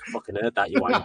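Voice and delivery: high, indignant mock snap, climbing sharply; mimicking wife's angry retort. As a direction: play the wife catching a muttered insult. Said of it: "and she's like".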